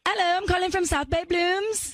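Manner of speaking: amateur attempt at a London accent. Shown as a demonstration. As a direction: play a London florist making a sales call. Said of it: "that was my London accent".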